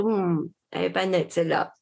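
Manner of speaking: low, mild muttered suspicion; mock outsider judging. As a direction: play a doubtful stranger. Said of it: "ils diraient".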